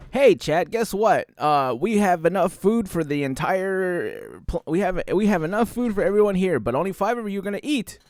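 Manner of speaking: high, loud cheery announcer voice; mock company announcement. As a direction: play a smug host announcing. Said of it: "being like".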